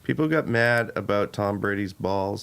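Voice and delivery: lightly voiced reluctant commissioner; halting, bland and a touch low; Roger Goodell impression. Reluctant commissioner pleading with a team owner, understated impression. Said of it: "pauses in between everything".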